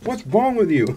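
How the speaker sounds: high-pitched mock shock; acted outraged reaction. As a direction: squeal it in hammed-up disbelief, rising high. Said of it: "and you're like".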